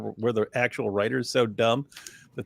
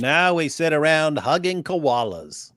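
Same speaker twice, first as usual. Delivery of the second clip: put-on Australian accent; 2 semitones higher, slower than usual. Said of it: "the worst Australian accent".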